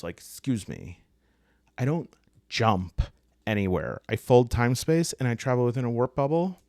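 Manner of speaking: snooty, indignant mock correction; affronted snob, pausing pointedly mid-sentence; stuck-up ship. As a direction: play a haughty ship taking offence at the wording. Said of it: "Wow, these are stuck-up ships".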